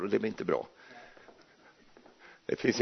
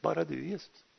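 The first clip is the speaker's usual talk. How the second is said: hushed prayer; 13 dB quieter than usual. Retold or imitated. Answering Jesus in prayer.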